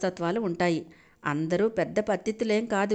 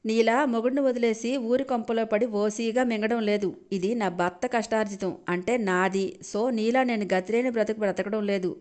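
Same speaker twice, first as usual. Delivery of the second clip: arrogantly; 3 semitones higher than usual. Acted. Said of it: "అని పొగరుగా అంది నీరజ".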